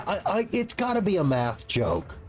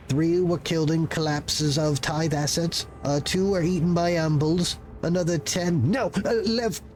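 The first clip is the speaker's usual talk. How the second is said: a frazzled little bureaucrat caught off guard; nervous clerk voice. Acted. Clerk role.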